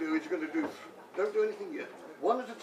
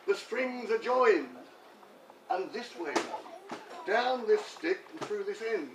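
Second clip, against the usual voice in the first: comic verse recital. Pretend. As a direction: declaim it like a homemade poem. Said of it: "I feel the urge of poetry".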